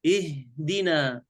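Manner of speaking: اهدنا said slowly, air pushed out with the ha; breathy ha. Shown as a demonstration. Teacher modelling اهدنا for the student. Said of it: "اهدي".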